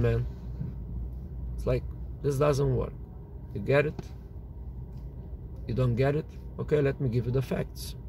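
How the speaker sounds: cool-headed partner laying out facts; low energy, high intensity. Retold or imitated. Calm partner proposes splitting the jewelry store, low and steady. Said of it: "do low energy, high intensity".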